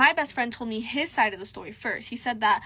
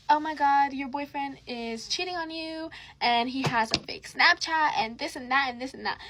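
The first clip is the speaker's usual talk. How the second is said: mock tattling girl; 3 semitones higher than usual. Girl phones her about a cheating boyfriend, mock tattling. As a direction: lightly mimic a girl dishing gossip. Other girl's accusing phone call.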